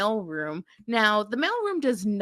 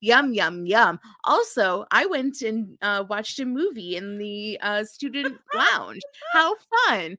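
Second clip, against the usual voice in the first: chirpy mock daughter; 3 dB louder than usual. Felicity phoning her parents, mock chirpy and louder. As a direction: play a cheery oblivious college kid. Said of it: "I'm sure she's just like".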